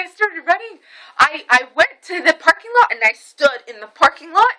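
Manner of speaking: high, loud, breathless-with-outrage imitation; mom impression. Daughter shows how mom talks, high excited impression. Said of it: "that's how she talks".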